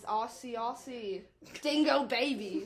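slow, laughing Kevin Malone voice; Kevin Malone impression. Telling a friend about her sister, imitating Kevin Malone. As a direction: dumb drawn-out Aussie joke line, laughing. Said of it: "if you've ever watched The Office, Kevin Malone".

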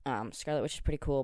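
ordinary talk, nothing marked

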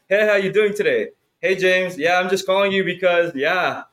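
lightly put-on polite salesman on a call; professional phone voice. Mocking how he sounds calling clients, fake polite. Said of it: "like, a professional voice?".

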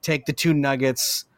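muffled voice. Retold or imitated. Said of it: "the muffled voice".

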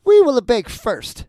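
high, loud, slow witch voice; commanding old witch. A narrator's reading. Witch gives Gretel orders, high loud command. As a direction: announce it loudly, stretching the words. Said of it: "said the old woman".

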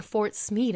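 "Smead" with a drawn-out ee; slow "Smead", ending in d instead of th; misheard Smith as Smead. Retold or imitated. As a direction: imitate the misheard "Smead", rhyming with bead. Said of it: "always thought he was sa-, saying".

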